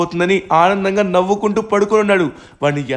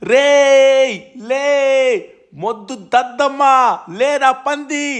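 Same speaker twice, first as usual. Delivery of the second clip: higher, louder insulting yells; angry yelling; 7 semitones higher, 3 dB louder, much slower than usual. Acted. Yelling at the titan to get up, angry shouting. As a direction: shout him awake with insults. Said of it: "ఎంత గట్టిగా అరిచినా కూడా".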